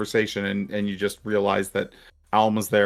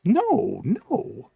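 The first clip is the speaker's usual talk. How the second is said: high, startled-sounding "no, no"; two high, separate noes; high-pitched denial; 11 semitones higher than usual. Acted. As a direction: deny it in a much higher register. Character reacts to being asked about a slave.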